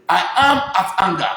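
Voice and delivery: imitating the actress. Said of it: "that time she dey say".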